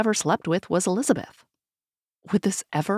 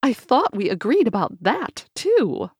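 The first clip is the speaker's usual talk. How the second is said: alarmed; 6 semitones higher, 3 dB louder than usual. A narrator's reading. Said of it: "she said in alarm".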